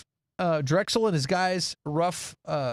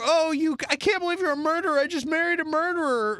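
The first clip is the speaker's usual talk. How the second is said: high-pitched mock disbelief; acted horror; 10 semitones higher than usual. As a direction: imitate a horrified new wife. Imagined wife's horrified reaction.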